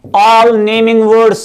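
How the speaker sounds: all naming words stretched very slowly; slow emphasis. Shown as a demonstration. Teacher stressing the key phrase for students, very slow.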